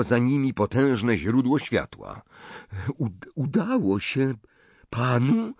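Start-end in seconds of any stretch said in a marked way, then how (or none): 3.0-5.5 stammering through chattering teeth. A narrator's reading. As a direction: teeth chattering from cold, stuttering. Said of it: "wyjąkał Harry, szczękając zębami".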